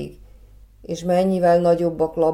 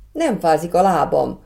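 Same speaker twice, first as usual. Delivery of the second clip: happy whoop; 2 semitones higher, 4 dB louder than usual. Acted. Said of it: "kurjantott boldogan Laborc".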